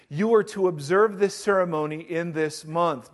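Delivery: proclaiming the verse to the church; scripture reading. Acted. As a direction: read the passage out with weight. Reading scripture aloud to congregation.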